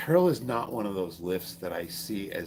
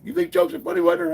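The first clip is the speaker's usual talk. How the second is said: high, loud drill instructor bark; mock drill instructor yell; 12 semitones higher, 6 dB louder than usual. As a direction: yell it like an angry drill sergeant. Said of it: "He's like".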